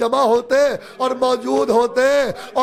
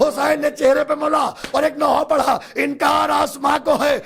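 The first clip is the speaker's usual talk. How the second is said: impassioned preaching; full-force preaching; 2 semitones higher than usual. Acted. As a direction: cry it out to the mourners. Climax of the lament.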